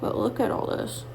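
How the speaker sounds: talking around whitening strips with a stiff face; whitening tray. Real, not acted. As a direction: speak as if teeth strips block your mouth. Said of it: "so I can't talk super well".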